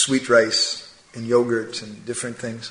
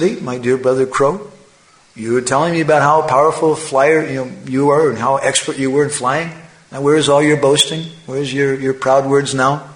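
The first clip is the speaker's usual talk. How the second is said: a touch louder, lightly acted needling; mild taunting; 3 dB louder than usual. Swan turning to the exhausted crow, mildly taunting. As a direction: call out the boaster, teasing.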